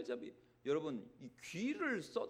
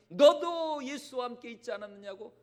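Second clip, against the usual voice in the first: loud, higher accusing questions; a servant girl pressing Peter, loud and accusing; 6 semitones higher, 7 dB louder than usual. Retold or imitated. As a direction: corner him with each question. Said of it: "계집종의 그 말 한마디".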